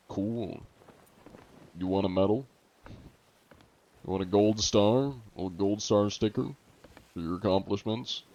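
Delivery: sarcastic. Real, not acted. Mocking a cheater's ego.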